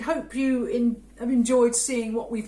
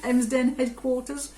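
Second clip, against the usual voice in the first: dry, slowed mock enthusiasm; sarcastic. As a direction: sell it with deadpan irony. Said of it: "she said sarcastically".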